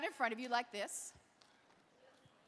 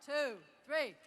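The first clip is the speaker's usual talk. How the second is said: louder; 3 dB louder than usual. Shown as a demonstration. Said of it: "Even louder".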